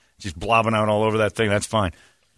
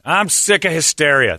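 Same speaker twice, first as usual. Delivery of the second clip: put-on drunk voice; 6 semitones higher, 4 dB louder than usual. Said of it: "I'll read it like a drunk wrote it".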